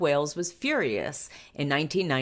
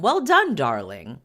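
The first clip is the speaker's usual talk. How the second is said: posh praise; 6 dB louder than usual. Retold or imitated. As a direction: coo it like a proud posh nanny. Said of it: "Tiggy told him".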